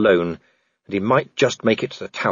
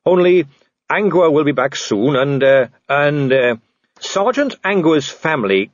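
put-on hesitant, embarrassed young man; stumbling over the delicate bit; awkward young officer; 3 semitones higher than usual. Carrot explains awkwardly.

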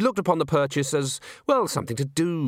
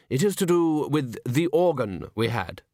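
slow dry gentleman. Acted. Sal Zeller again.

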